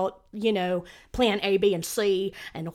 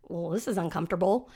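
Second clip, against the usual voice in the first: softer, lower deadpan aside "Well, this is uncomfortable."; deadpan muttered remark; 4 semitones lower, 3 dB quieter than usual. Retold or imitated. Mom alone on unmuted Zoom call, deadpan aside. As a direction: mutter "uncomfortable" flatly to yourself. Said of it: "I go".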